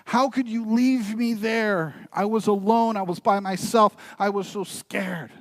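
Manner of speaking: mock a boy's hurt complaint, lifted high; hurt, angry child. Boy reproaching his father for leaving him, hurt and high. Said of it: "and he is angry".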